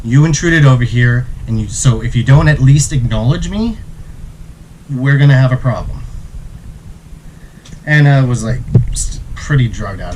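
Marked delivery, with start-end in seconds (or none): 0.0-6.0 a bit louder, confrontational warning; warning the intruder, somewhat louder; spoke louder. Retold or imitated. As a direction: square up and raise the voice. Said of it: "I spoke even louder".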